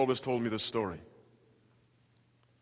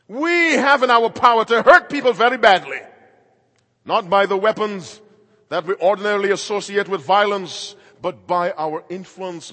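loud, pounding challenge from the pulpit; full-force preaching; 10 semitones higher, 16 dB louder than usual. Acted. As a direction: hammer the question home to the preachers.

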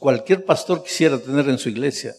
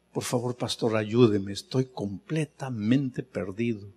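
broken confession; 3 semitones lower, 4 dB quieter than usual. Retold or imitated. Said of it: "Me dice".

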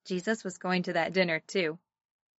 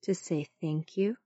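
sunday school teacher; 3 semitones lower, 3 dB quieter than usual. Shown as a demonstration. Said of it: "pray together".

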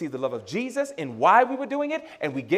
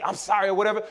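mildly angry mock apology; a touch of dismissive anger; faster than usual. Shown as a demonstration. Showing parents a bad apology, mildly angry. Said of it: "with an angry tone just say".

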